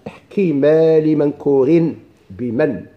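very slow intoned poem line; measured, drawn-out recitation; reciting the verse. Shown as a demonstration. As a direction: chant the verse line slowly. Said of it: "قال".

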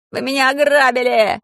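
high, loud wail of being robbed; pygmy howls at the priests; shouting. A narrator's reading. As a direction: scream it while biting the bars. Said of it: "закричал пигмей".

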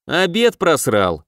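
slow, blunt jab; rude remark. Acted. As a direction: say it crudely. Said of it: "грубо прокомментировал Макс".

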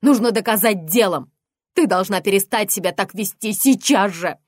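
loud angry demand; furious shout. Acted. Mother shouting orders at her daughter.

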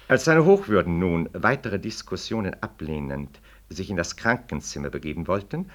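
measured, official reading of a document; formal reading aloud. Acted. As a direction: read the petition out like an official notice. Reads interpellation aloud.

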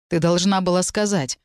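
plain reading voice

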